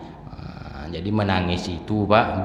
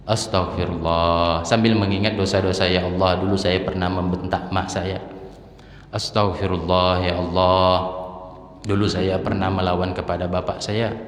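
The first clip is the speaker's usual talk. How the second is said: demo of repentant prayer. Shown as a demonstration. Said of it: "Sambil apa?".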